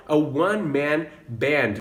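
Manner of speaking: "a one-man band" with a w start; "one" said as "wun"; slow "a one-man band"; model pronunciation. Shown as a demonstration. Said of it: "Eu vou falar que ele é o".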